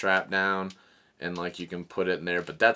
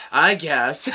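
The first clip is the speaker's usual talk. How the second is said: higher, laughing grudging yes; mock grudging reply; reluctant shrug; 5 semitones higher, 7 dB louder than usual. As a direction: give in half-heartedly. Dancer reluctantly agrees.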